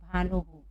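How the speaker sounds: "भानुहु" closing on an echoed हु; visarga demonstration. Shown as a demonstration. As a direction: repeat "भानुहु" for learners. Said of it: "किस तरह से पढ़ेंगे?".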